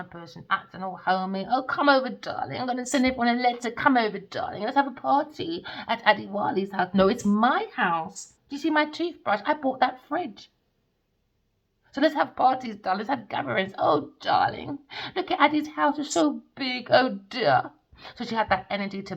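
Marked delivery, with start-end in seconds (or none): 1.5-6.9 mocking her invites. 13.8-17.7 higher mocking coo over the big house; mocking her high, gushing delight at the house; mock posh gushing.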